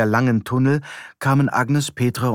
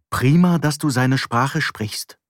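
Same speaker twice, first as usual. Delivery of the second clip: angry sarcasm; 3 semitones higher, slower than usual. Acted. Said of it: "sagte Petra wütend".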